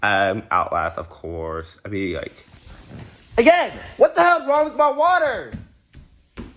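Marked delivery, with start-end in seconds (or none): 3.4-5.5 loud, high exclamation of disbelief; alarmed outburst. Real, not acted. Startled homeowner discovering something wrong with the water, alarmed outburst.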